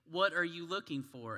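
a helpful store clerk asking directly; sales associate. Acted. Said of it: "a sales associate goes".

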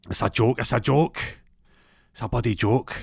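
acted-out refusal to accept it; indignant. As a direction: insist on it in mock outrage. Dumped man refuses to accept.

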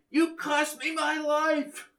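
high, slow, distant menace; villain's angry cry. A narrator's reading. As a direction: hurl it down from far above. Villain shouting from the gate.

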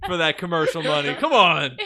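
real laughter building up; laughing. Real, not acted. Joking about sleeping with snake.

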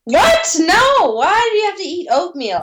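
appalled disbelief at the idea; shocked outburst. Real, not acted. Reacting to oatmeal breakfast advice.

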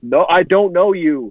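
imitating a desperate cry without really screaming; mock scream for help. Co-host acting out the film character's line, mild mock scream. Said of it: "screaming for help".

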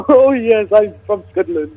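badly faked Scottish lilt; bad Scottish accent. Prank caller answers doubting host, bad Scottish accent. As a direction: claim to be from Scotland in mock Scottish. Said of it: "Is that supposed to be a Scottish accent?".

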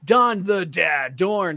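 announcer voice. Shown as a demonstration. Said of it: "doing that voice".

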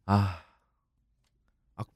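ordinary delivery

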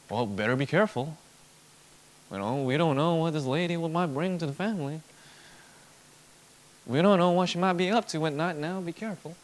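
lightly put-on Southern accent. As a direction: warn them with a mock Southern accent. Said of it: "I come up with a Southern accent".

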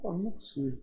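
muttering. Retold or imitated. Son grumbling at father's request.

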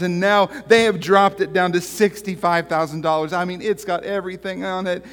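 high-pitched, hammed-up wife on the phone; wheedling wife. Wife angles for more in joke.

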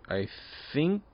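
slurring, tipsy talk. Real, not acted. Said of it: "God, I'm so drunk".

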